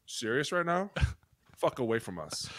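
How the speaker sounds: very soft, disgusted aside; muttered disbelief. Retold or imitated. Lineman reacting in a meeting, muttered disbelief. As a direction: mutter it under your breath.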